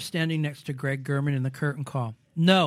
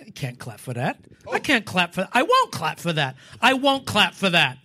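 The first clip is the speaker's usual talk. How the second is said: indignant refusal; 5 dB louder than usual. Retold or imitated. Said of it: "he said out loud".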